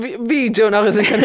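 high, loud incredulous voice; mock disbelief. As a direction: act baffled and shocked.

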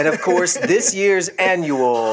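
slightly slow, drawn-out pretend presenter; lightly put-on ceremony host, building suspense; mock award announcer. Host announcing the teachers' joke award to friends, mock grandly.

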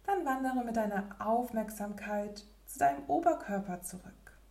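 usual speaking voice

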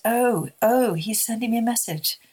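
a touch of amazement as it sinks in; sudden realization. Retold or imitated. Mother grasping a message about her daughter, mildly amazed. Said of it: "then I suddenly realized".

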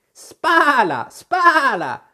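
high, loud cry with a long falling vowel; shouting sheep. A narrator's reading. The sheep orders Alice at the oars, high drawn-out shout. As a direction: call out the order as a bossy sheep. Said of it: "gridò di nuovo la pecora".

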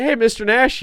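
high-pitched starstruck hey; eager greeting. Retold or imitated. Nephew greeting a famous wrestler at the record store, eager greeting. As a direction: imitate an excited fan's hello.

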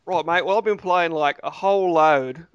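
put-on Aussie accent; Australian accent. Answering the host about games played, in mock Australian accent. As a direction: play at being an Australian mate. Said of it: "doing accents".

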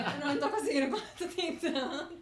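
real laughter through the words; laughing. Real, not acted. Guest tells host she can't build her example, laughing. Laughs while failing to explain.

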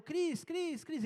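calling a distracted child. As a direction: call the boy's name to get his attention. Father calling distracted son.

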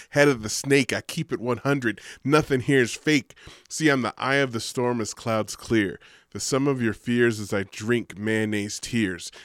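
rhythmic spoken-word recital, building in force; spoken-word poem. Acted. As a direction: perform it like a slam poem.

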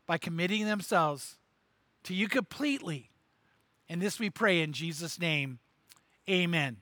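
prayer. Acted. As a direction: pray it gently, unhurried. Pastor prays for listeners.

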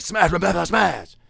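a touch of mocking glee, repeated; light mock chant of smash. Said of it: "You're gonna be like".

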